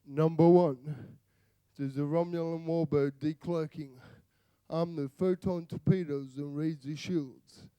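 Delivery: a lightly voiced commanding starship captain; Captain Picard. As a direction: give the order like a calm captain on the bridge. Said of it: "imagine Captain Picard saying something like".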